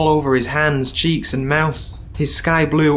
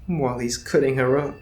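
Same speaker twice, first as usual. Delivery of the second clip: softer private inner voice; inner thoughts; 6 dB quieter than usual. Acted. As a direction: think it to yourself.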